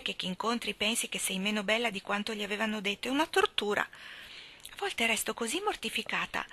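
a lightly voiced, dreamy romantic girl; lightly voiced Hazel gushing to Miss Shirley. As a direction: sigh it out like a lovesick schoolgirl. Hazel's long gushing speech.

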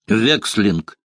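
a lightly voiced alarmed exclamation; a hint of a startled innkeeper's cry; mild mock cry. A narrator's reading. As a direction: blurt the name out in alarm, understated. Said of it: "выкрикнул трактирщик".

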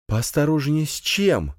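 high, slow puzzled question; surprised question. A narrator's reading. Camille puzzled by the gendarme's warning, surprised question. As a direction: ask in surprise, pitch lifted high. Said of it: "удивлённо спросила Камила".

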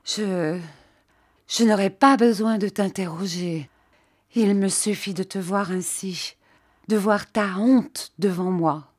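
a touch of a halting, broken voice; understated catch in the throat on "Je, je"; voice choked with emotion. Acted. Jeanne confronting her maid, mildly choked up. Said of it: "d'une voix coupée par l'émotion".

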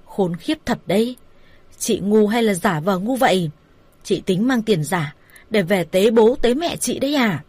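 mild angry outburst, acted by a narrator; angry berating. Man scolding his lover over fake money, mildly angry. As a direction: berate her with restrained fury.

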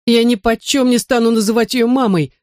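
high-pitched mock squeal of protest; shrieking boy. A narrator's reading. Invisible boy protesting a new stepmother, hammed-up squeal. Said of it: "завизжал невидимый Брайан".

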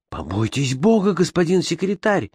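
high-pitched plea to the secretary; exclaiming. Acted. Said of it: "воскликнул англичанин".

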